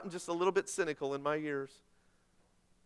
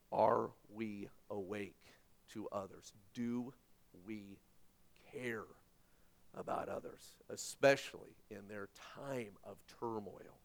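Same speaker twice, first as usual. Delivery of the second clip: softer, slower, almost whispered at the end; hushed question; 9 semitones lower, 11 dB quieter than usual. Shown as a demonstration. Preacher hushing the congregation with a softer plea. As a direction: lean in and drop to a near whisper. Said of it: "repeats the question hushed".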